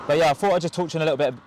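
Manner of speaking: fast, eager rush of words; excited, talking fast. Real, not acted. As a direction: rattle it off, a bit too excited. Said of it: "I'm pretty excited 'cause I'm talking really fast".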